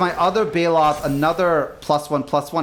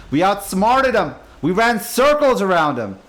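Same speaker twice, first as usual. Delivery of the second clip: tag; 4 semitones higher, 4 dB louder than usual. Real, not acted. Gloating after killing opposing creature.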